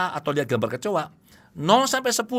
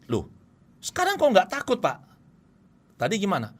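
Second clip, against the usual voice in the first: acted surprised client; 3 semitones higher than usual. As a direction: play the client puzzled that the fear is gone. Client surprised after therapy.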